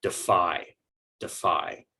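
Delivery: "defy" with the weight on its second syllable, ending in long I; careful "defy", stressed at the end and falling. Shown as a demonstration. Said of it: "give more stress to that second syllable".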